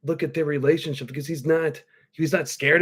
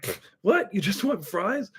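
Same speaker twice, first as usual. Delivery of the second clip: incredulous; 5 semitones higher, 4 dB quieter than usual. Retold or imitated. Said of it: "he just gets, like, fucking incredulous".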